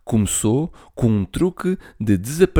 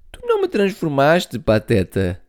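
laughing; 5 semitones higher than usual. Acted. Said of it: "disse ela a rir".

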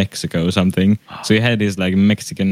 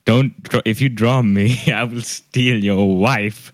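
mock-serious threat, slowing at the end; completely serious; slower than usual. Teacher threatening the student who would draw him, mock serious. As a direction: insist on the absurd threat. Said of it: "I'm serious".

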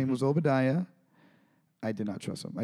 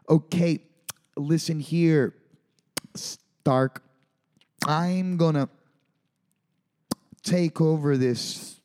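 higher, louder lip-smacking villain threat, slow at the end; Jeff Bridges as Obadiah; 5 semitones higher, 4 dB louder, slower than usual. Host mimics Jeff Bridges threatening Stark, loud and hammy. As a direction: ham it up like an overacting villain chewing the line. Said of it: "It's like full A S M R".

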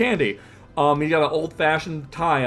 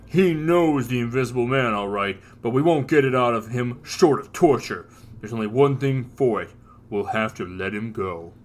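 gruff judge voice; 5 semitones lower than usual. Acted. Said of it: "Dredd is saying".

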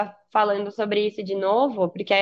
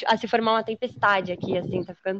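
talking outdoors in gusty wind; wind on mic. Real, not acted. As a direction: wind noise over the voice. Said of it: "não sei se dá pra ouvir o vento na gravação". (vento no microfone)

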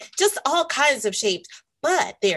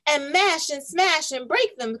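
mock excited cry; 6 semitones higher than usual. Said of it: "cried Samson".

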